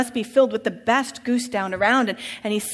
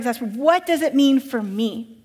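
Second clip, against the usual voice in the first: shouting; 2 semitones higher, 4 dB louder, slower than usual. Acted. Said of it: "Dositheus shouting".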